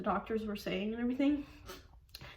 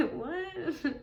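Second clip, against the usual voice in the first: laughing disbelief; 8 semitones higher than usual. Retold or imitated. Baby on the ultrasound.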